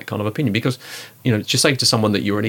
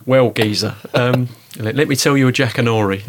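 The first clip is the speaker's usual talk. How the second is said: a light, hammed-up Cockney geezer voice, a bit louder; playful Cockney; 2 semitones higher, 4 dB louder than usual. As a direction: lay on the East End charm as a joke. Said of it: "Let me tell you a story about it".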